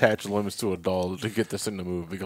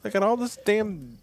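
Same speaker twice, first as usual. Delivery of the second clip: high mock muffled complaint; mouth full; 13 semitones higher than usual. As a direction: complain like your mouth's stuffed. Mimicking mouth full at dentist.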